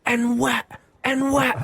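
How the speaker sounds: high, mocking yell of "in what"; mock shouting stranger. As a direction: ham up the angry pedestrian. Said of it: "starts shouting".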